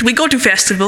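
lightly faked Swedish accent; a rough go at a Swedish accent; mock Swedish accent. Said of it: "He's Swedish".

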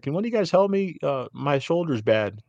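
put-on high, then slow, pleading old lady; S0 mimics the old lady asking the staff for help; mock old lady. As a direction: mimic her asking for help, slowing on the shoulder. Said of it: "She's like".

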